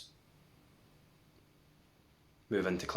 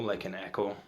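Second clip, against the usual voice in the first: guided meditation. Real, not acted. Guiding viewers to watch for the next thought, meditation voice. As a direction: lead them into stillness, leaving long silences between phrases.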